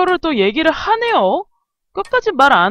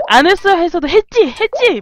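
high, loud accusing mother; mock badgering; 4 semitones higher, 4 dB louder than usual. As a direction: badger your child as a hysterical parent would. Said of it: "막 이랬을 것 같고".

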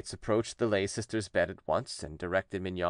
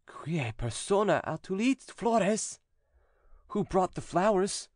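higher, slow solemn questioning; exorcist priest; 10 semitones higher, slower than usual. A narrator's reading. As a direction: press the demon for a name. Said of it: "he asked the following questions".

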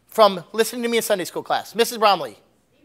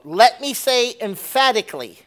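emphatic quote; 3 semitones higher, 4 dB louder than usual. Acted. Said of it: "Okay, this is a quote".

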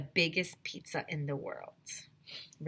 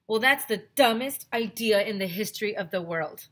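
scornful; 3 semitones higher, 6 dB louder than usual. Acted. AJ dismissing Andrea's idea.

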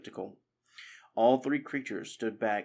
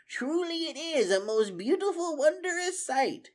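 Methuselah breathing it. Acted. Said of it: "he breathed".

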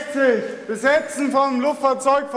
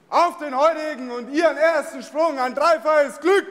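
ceremonial shout. Real, not acted. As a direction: call it out to the assembled squad. Ceremonial wish to jumpers.

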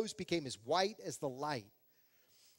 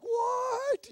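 much higher, loud bewildered what; dazed what; 5 dB louder than usual. Retold or imitated. Pastor frozen as wife urges action, dazed what. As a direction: sound totally lost and frozen. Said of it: "I was about to just stand there".

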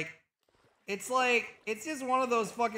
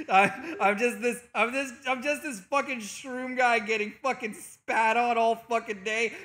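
loud, raised-pitch comic tirade; mock-aggrieved rant; 3 semitones higher, 5 dB louder than usual. Streamer complaining about abusive fans, mock-aggrieved rant. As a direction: play up being stepped on all day.

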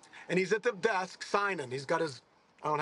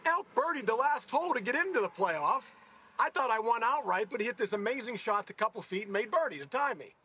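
higher, eager self-defence; indignant explaining; 6 semitones higher than usual. Retold or imitated. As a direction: protest that the win was earned, pitched up. Defending himself to his mentor.

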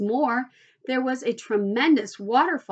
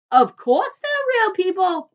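loud, high, slow insistence; emphatic reply; 7 semitones higher, 7 dB louder, slower than usual. Acted. Mister Wonka answers Charlie's doubt, loudly emphatic. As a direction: stretch it out with total assurance.

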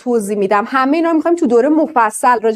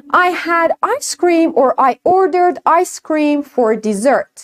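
I had ice cream for dessert, each word spoken very slowly; very slow demo; 3 semitones higher, much slower than usual. Shown as a demonstration. Teacher slowly reads the example to the class. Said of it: "For example".

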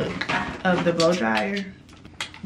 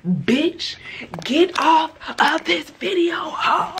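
mock threat; 9 semitones higher, 4 dB louder, much slower than usual. Warning off ill-intent viewers.

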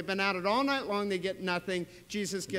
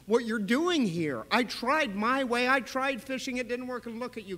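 overwhelmed gratitude; 5 semitones higher, 4 dB louder than usual. Retold or imitated. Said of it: "you sit there and you go".

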